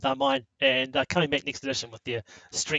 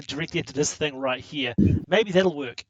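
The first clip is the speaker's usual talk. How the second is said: projecting voice; 4 dB louder than usual. Real, not acted. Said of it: "try and project my voice".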